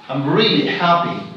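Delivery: emphatic "really", the strongest word; stress on really. Shown as a demonstration. Teacher repeating the emphasis example, stressing "really". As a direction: make "really" stand out over "happy". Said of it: "So the word really here".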